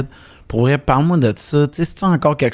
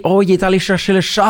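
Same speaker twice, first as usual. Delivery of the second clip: put-on French words said with a light English accent, pitched up; 5 semitones higher than usual. Host imitating basketball analysts who speak French with an English accent. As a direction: play an anglophone sportscaster slipping into French with an English accent. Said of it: "mais avec un accent anglais".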